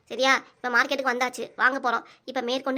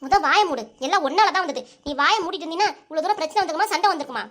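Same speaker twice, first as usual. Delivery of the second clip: scolding with a slightly raised, rising pitch; angry yelling. Acted. Woman blaming her parent for telling the grandson everything, angry scolding. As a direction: tell them off sharply, pressing each accusation. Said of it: "காட்டு காட்டுன்னு கத்துறீங்க".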